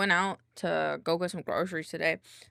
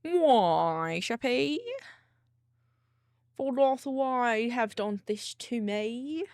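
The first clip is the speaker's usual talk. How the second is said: mock dramatic betrayal; 5 semitones higher, 5 dB louder, slower than usual. Acted betrayal at chat member.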